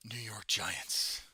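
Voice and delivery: slow, deadpan fake answer; mock answer. Slowly teasing chat with a fake team. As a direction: drag it out as an obvious joke.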